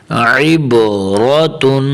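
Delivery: slow chanted عبرتن opening on throaty ain; well-sounded ain. Shown as a demonstration. Teacher models for practice, slow عبرتن with clear ain. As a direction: draw out عبرتن, squeezing the first ain. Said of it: "یہاں عین کی آواز اچھے طریقے سے نکالنی ہے".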